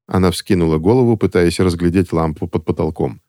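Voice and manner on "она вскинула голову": ordinary delivery, nothing marked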